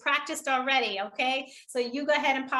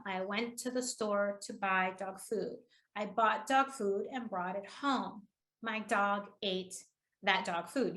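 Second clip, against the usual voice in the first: slow, quiet replay leaning on ate; softly imitating a measured read with ate pressed; stress on ate; 5 semitones lower, 5 dB quieter, slower than usual. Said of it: "how she pressed on ate".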